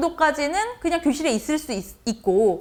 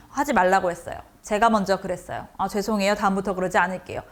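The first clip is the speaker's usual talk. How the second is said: put-on rote child reply; 4 semitones lower than usual. Shown as a demonstration. Child's rote mechanical answers.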